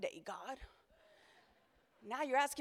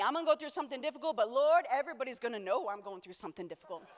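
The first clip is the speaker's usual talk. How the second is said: rushed, whiny self-pity, lightly done; mock complaining; faster than usual. Pastor imitating churchgoers who complain, quick and mock. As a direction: rattle it off like a martyr. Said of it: "how many are like me".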